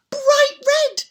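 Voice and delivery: high breathless whisper; awed whisper. A narrator's reading. Storyteller whispering in awe at the shoes. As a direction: marvel at it under your breath.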